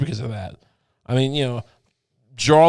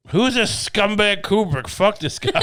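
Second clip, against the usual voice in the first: higher, drawn-out mock outrage; mock scornful critic; 5 semitones higher than usual. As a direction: sneer as the dismissive critic, half laughing. Acts critic dismissing Kubrick.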